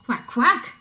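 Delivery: loud imitation quacking; playful loud quack; duck squawk. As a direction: squawk like a startled storybook duck. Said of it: "squawked Duck".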